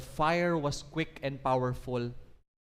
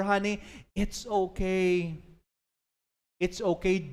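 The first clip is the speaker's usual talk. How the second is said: calm reassurance; 3 semitones higher than usual. Acted. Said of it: "With calmness now".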